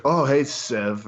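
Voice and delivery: slow, lightly mocked Russian accent; rough impression of a Russian man; imitated Russian accent. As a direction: greet someone with a hint of Russian. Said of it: "Very thick Russian accent".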